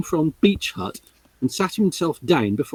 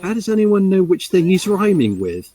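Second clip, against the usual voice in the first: fussy Tails; 5 semitones higher than usual. Acted.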